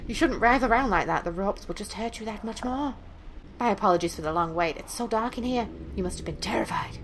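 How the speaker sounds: lightly voiced courteous kidnapper; a touch of false concern for the captive; polite sinister captor. Captor addressing the tied-up girl, politely sinister.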